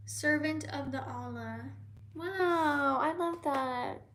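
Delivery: ordinary talk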